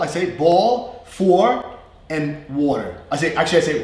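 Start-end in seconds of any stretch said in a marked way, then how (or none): 0.4-3.0 slow New York ball, for, water; East Coast accent. Shown as a demonstration. Teacher showing normal speech, East Coast accent. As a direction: list ball, for, water like North Jersey. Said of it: "that's my normal accent".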